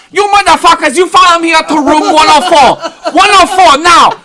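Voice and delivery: hammed-up screaming Asian boss; angry Asian hotel manager. Manager ordering guests upstairs to the room, screamed in mock accent. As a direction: yell orders high and loud in the accent. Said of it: "just angry Asian man".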